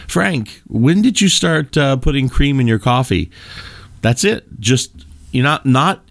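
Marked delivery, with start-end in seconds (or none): 0.1-3.3 friendly, curious asking, pitched higher; genuinely curious question. Shown as a demonstration. Asking friend Frank about his coffee, genuinely curious. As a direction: ask a friend casually, with real interest. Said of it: "ask an open-ended question with genuine curiosity".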